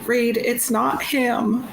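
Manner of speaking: high-pitched, urgent plea to a friend; Agora pleading. Acted. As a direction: plead with them to see the truth. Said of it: "like, pleading in Agora's voice".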